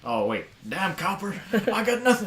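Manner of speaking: high, loud, slow Florida hick; weird hick accent. Acted. Robber caught by police, high mock hick accent. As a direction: protest in a hammed-up hick accent. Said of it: "they're gonna have a weird hick accent".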